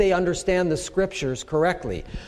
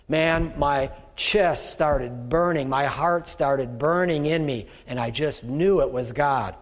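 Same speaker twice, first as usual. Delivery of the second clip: mock testimony; 4 semitones lower, slower than usual. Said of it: "They might say".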